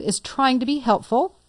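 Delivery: TRYING leaned on pointedly; stress on TRYING. Shown as a demonstration. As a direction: put the emphasis on the word "trying". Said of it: "emphasis on the word trying".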